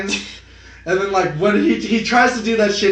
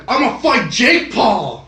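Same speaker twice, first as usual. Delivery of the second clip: mock challenge; 5 semitones higher, 3 dB louder, slower than usual. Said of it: "Deji is like".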